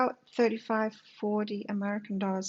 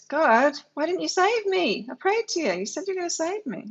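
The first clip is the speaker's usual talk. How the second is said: indignant complaint to God; 7 semitones higher, 4 dB louder than usual. Retold or imitated. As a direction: protest to God like you were cheated. Drowned man complaining to God.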